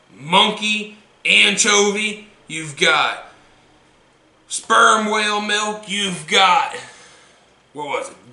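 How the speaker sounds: hyped ad read. Acted.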